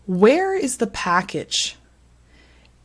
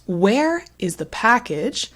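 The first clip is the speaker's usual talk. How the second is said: long stress on "Where" and "package", "is the" quicker; slow, rhythmic question stressing "Where" and "package"; stressed-word rhythm; 3 semitones higher than usual. Shown as a demonstration. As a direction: lean on "Where", skim over "is the". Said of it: "that rhythm with the non-stressed".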